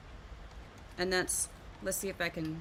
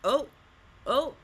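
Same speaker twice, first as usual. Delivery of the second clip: mock anticipation; 3 semitones higher, 5 dB louder than usual. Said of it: "and I'm like".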